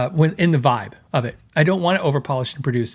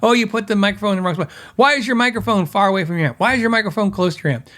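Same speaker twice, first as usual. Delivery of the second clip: mock complainer; 4 semitones higher than usual. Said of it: "somebody go".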